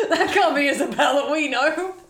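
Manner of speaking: laughing mock bank voice. Bank's voice, imitated with laughs.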